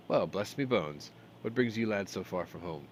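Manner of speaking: hint of a friendly dwarf; surprised dwarf host. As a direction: greet the lads with mild wonder.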